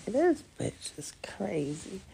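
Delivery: slow, breathy whispered aside; an ex whispering that she is crazy; mock whisper. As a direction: whisper it like a private put-down. Imagining his dismissive reaction.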